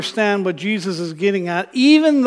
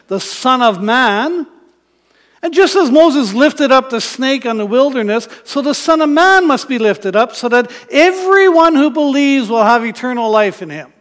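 louder, building proclamation; forceful declaration; 6 dB louder than usual. Acted. Jesus to Nicodemus, a louder forceful proclamation. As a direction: proclaim it like a prophet rising up. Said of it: "hear Jesus' words in the way Nicodemus would have heard them".

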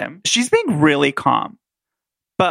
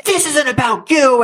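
mild mock yell; 9 semitones higher, 4 dB louder than usual. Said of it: "they're yelling in the other room".

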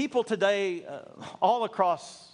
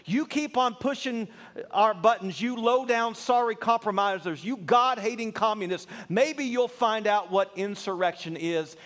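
quoted angry rant; 3 semitones higher than usual. Retold or imitated. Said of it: "the pastor added".

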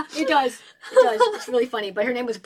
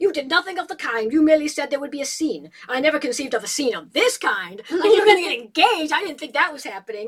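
mother retorting; 5 semitones higher, 5 dB louder than usual. Acted.

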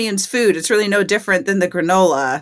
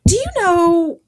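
a hint of a stranded commune guy; hippie guy voice; 3 semitones higher than usual. Retelling the abandoned forager, mildly put-on voice. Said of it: "he says".

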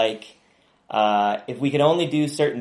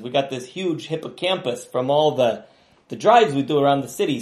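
chatty taxi driver character, pitched up; Jimmy voice; 3 semitones higher, 3 dB louder than usual. Acted. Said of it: "It's my friend Jimmy".

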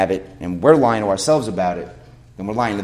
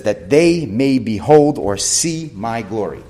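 1 slow solemn quote; 2 semitones higher, 6 dB louder, much slower than usual. Real, not acted. Quoting Jesus in John seventeen.

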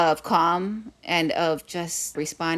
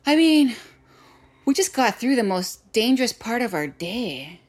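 joking dad; 5 semitones higher, 3 dB louder than usual. Retold or imitated. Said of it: "He's like".

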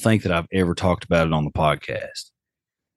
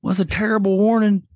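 joking; 12 semitones higher than usual. Real, not acted. Joking punchline.

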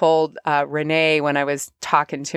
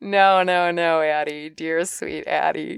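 gentle self-talk. Shown as a demonstration. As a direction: soothe yourself kindly. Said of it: "step back some of that energy".

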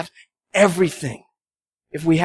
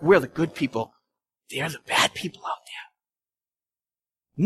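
smug churchgoer; 6 dB quieter, slower than usual. Retold or imitated. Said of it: "what happens in churches sometimes is like".

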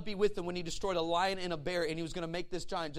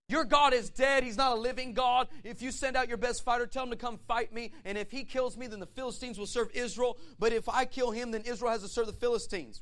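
loud, raised taunting challenge; Goliath's challenge; 4 semitones higher, 5 dB louder than usual. Acted. Giant challenging Israel to send a fighter, loud taunt. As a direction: call out the challenge to a whole army.

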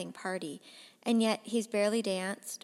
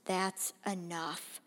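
soft, slow stern warning; father quietly warning his son; 6 dB quieter, slower than usual. Acted. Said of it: "their father says quietly".

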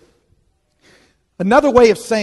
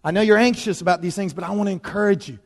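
softer, gentle and calming; actively peaceful; 5 dB quieter than usual. Shown as a demonstration. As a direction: settle him with quiet reassurance. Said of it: "He's actively peaceful".

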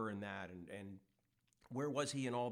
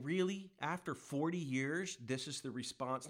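mock anger. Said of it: "but he's angry with them".

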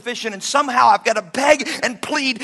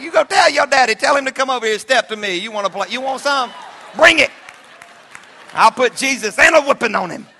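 inner thug; 3 semitones higher, 4 dB louder than usual. Retold or imitated. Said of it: "There's some thug in here".

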